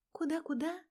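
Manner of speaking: high, disbelieving double-take; can't believe her ears. Acted. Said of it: "Проблема хмурится, не веря своим ушам". (переспрашивает, не веря своим ушам)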